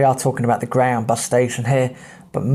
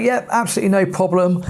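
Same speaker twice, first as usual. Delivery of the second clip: charming reply; 6 semitones higher than usual. Retold or imitated. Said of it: "I put on the charm".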